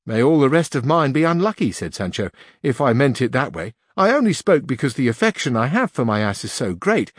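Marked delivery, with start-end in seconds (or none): 0.1-1.7 a rustic squire, a touch higher; lightly voiced Sancho. 2.6-7.1 a rustic squire, a touch higher; lightly voiced Sancho.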